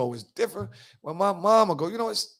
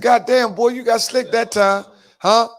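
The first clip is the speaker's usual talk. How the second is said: excited exclamation; 7 semitones higher, 7 dB louder than usual. Retold or imitated. Excited retold reaction to slick line.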